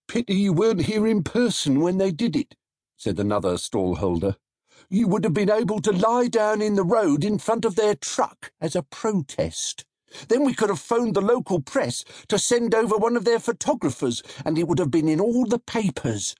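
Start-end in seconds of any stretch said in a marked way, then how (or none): 0.1-2.5 lightly voiced eager stallholder, pitched higher; a hint of a keen trader. A narrator's reading. 4.9-16.3 lightly voiced eager stallholder, pitched higher; a hint of a keen trader. A narrator's reading.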